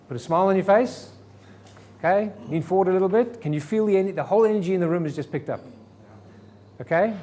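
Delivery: bright demo of enthusiasm; energetic. Shown as a demonstration. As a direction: lift the energy for the room. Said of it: "I want you to sit absolutely upright".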